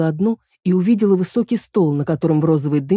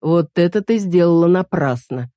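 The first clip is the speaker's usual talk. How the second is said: stern; slower than usual. Acted. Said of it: "строго заметил мужчина".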